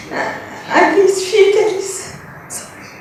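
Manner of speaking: halting, overcome, then hurrying past it; apologising through real emotion; emotional. Real, not acted. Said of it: "I don't know why I'm so emotional".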